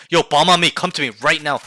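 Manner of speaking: brisk, forceful demonstrated summons; urgent call-out. Shown as a demonstration. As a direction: tell the team urgently, voice up. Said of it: "you tell them".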